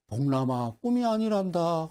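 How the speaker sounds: lightly voiced old sage, drawn out; a hint of a solemn apparition; old mountain spirit. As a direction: play a mystical grandfather, lightly. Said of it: "할아버지 한 분이 쓱 나타나는".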